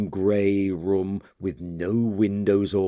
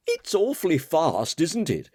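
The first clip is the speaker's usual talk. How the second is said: light, higher voice with a smile in it; smiling; 9 semitones higher than usual. Acted. Betteridge joining the dancers, smiling as he speaks. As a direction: smile through the words. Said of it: "smiled Betteridge".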